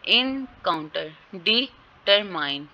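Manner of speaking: slow, split-up "इनकाउंटर", "डिटरमाइन"; stress demonstration. Shown as a demonstration. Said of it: "इस तरह ये pronounce होंगे".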